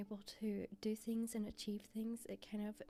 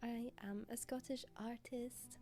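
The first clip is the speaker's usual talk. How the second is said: hoarse sick voice; talking through a cold; feeling sick. Real, not acted. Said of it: "Please excuse my voice, I'm actually sick".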